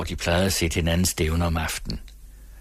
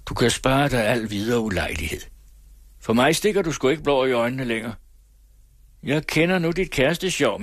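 higher, hard-edged scornful warning; raised voice, scornful rejection of his sweetheart; contemptuous threat; 6 semitones higher than usual. Acted. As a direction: cut her off with cold threats. Jilted man rebuffs and threatens.

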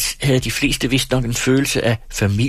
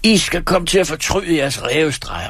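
much higher, threatening outburst; angry shout; 9 semitones higher than usual. A narrator's reading. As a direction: warn them furiously from the table. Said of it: "råbte han".

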